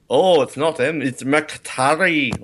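McTarry drawn out slowly with emphasis; emphasized name. Retold or imitated. Host imitating film characters correcting M, stressing McTarry slowly. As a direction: lean hard and slow on McTarry. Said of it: "they mention it and they emphasize".

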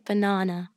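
"Banana" with a British long ah in the middle; British pronunciation. Shown as a demonstration. British guest coaching an American host, "Banana" with a long ah. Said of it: "Say banana. Ready?".

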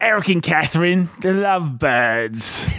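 mock British announcement; British accent. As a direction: read the names in a put-on British accent. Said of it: "Uh, British".

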